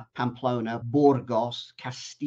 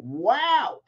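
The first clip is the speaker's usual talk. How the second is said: awed wow; 10 semitones higher, 5 dB louder than usual. Retold or imitated. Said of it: "I'm going".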